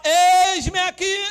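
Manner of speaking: God's answer. Acted. God answers the crying believer, slow proclamation. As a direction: answer slowly, drawing the words out.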